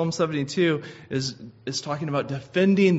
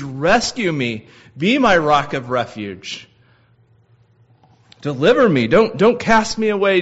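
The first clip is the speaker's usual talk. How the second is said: raised, urgent plea rising higher toward the end; pleading cry to God; 5 semitones higher, 4 dB louder than usual. Acted. Preacher voicing David crying out in distress, pleading. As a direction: beg the Lord not to leave. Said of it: "And he's crying out to the Lord".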